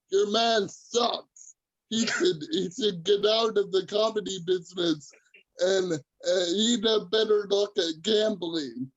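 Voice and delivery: lightly put-on Dublin accent; mock a Dubliner's complaint in an Irish lilt; imitated Irish heckler. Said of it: "some guy from Ireland, from Dublin".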